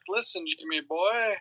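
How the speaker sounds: slow, imitated attitude; some attitude. Imagining McCoy talking down to Jimmy, with attitude. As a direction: put a bit of attitude on it. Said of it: "having some attitude".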